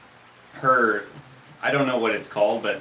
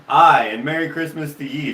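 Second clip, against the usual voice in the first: light imitated Scottish-Irish brogue, louder; thick Scottish-Irish accent; 5 dB louder than usual. Quoting the nurse's text to a friend, Scottish-Irish accent. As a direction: repeat it with a hint of Scots-Irish lilt. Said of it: "in this accent".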